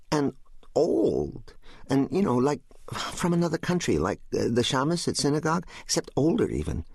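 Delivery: put-on high little boy feeling for words; young son. Narrator voices son describing a voice.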